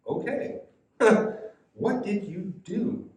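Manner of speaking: high, slow, bewildered question with a small laugh; drawn-out, baffled questioning; puzzled Pilate. Acted. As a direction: ask it like you just don't get it. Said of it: "He didn't get it".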